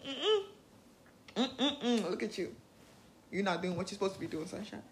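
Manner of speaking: tutting, then fast scolding; disapproving inner critic. Pretend. Inner critic tutting at her for skipping rituals, disapproving. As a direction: click your tongue and scold. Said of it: "my inner critic is saying".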